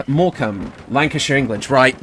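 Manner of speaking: ordinary talk, nothing marked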